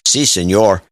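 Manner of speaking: "Si Senor" said plainly in a Mexican accent; matter-of-fact Mexican-accented "Si Senor"; normal Mexican accent. Shown as a demonstration. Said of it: "saying it in a normal Mexican accent".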